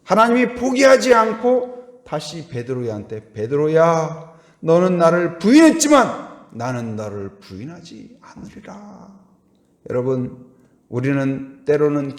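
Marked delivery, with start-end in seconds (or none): 3.3-9.2 1 gentle voice of God. Acted. God speaking to Peter.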